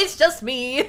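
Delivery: loud, lifted own voice. Explaining she can't sound different once she raises her voice: raised voice. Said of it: "the second I raise my voice".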